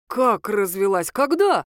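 slow shocked question, then a jump up on "Когда?"; stunned disbelief. Acted. Ex-husband hearing of the divorce, shocked and rising. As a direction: caught off guard, demanding an answer.

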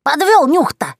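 lightly voiced old witch, high and slow; a cackling granny confiding a secret; grandmotherly witch voice; old crone voice. A narrator's reading. Yagusya taunts sister.

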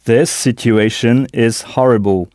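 This situation is horrible, with a breathed h in horrible; English model. Shown as a demonstration. Teacher models the sentence with an aspirated h. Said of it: "le H anglais ici n'est pas muet".

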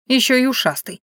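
ordinary delivery

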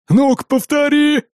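high, slow menacing dare; threatening. A narrator's reading. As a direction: dare her to repeat it. Archanka threatening the wife. (Арчанка угрожает: высоко и медленно)

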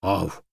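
short loud startled bark; barked woof. A narrator's reading. Startled dog barking at monkey, loud. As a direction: bark in shock. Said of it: "рявкнул я".

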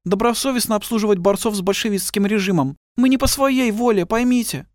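high, tired woman's voice; explain, pleading to be believed; plump woman pleading. A narrator's reading. (высоким усталым женским голосом)

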